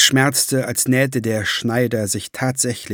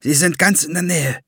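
raised, certain warning; certain, higher voice; without doubt; 6 semitones higher than usual. A narrator's reading. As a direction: state it as sure fact. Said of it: "nicht die Spur von Zweifel".

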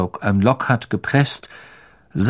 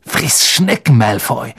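angry. Acted. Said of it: "sagte Ron zornig".

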